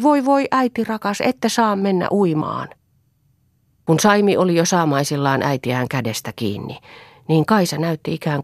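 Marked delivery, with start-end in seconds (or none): 0.0-2.7 anguished plea. Acted. Children wailing at their mother not to swim. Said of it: "hätäillen huusivat".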